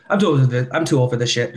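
hurried mock movie catchphrase; really fast. Host imagining the fast talker's cop film line, hurried. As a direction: rush the line as a speed-talker would. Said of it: "just really fast".

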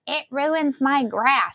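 retold indignant whine at moderate volume; mock angry yell. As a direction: imitate an irate neighbour, stretching the words. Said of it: "yelled at him for salting the bottom".

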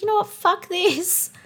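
high, changed defiant voice; defiant inner voice. Retold or imitated. Her past self deciding to keep swearing, high and defiant. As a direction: toss it off with defiance. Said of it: "And I was like".

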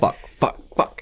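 whispered panicky cursing; panicked whisper. Pretend. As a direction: hiss each curse in alarm. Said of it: "they're just like".

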